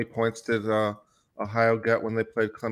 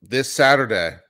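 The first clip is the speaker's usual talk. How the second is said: mock fight announcer; 2 semitones higher, 6 dB louder than usual. Hyping a showdown like announcer.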